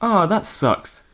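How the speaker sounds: slow, high disappointed groan; a hammed-up letdown, drawn out; mock upset. Samantha hearing Han is frozen, mock disappointment. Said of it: "Samantha was genuinely upset".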